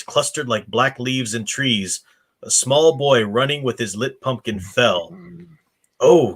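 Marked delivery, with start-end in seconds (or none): 6.0-6.3 gasp. Acted.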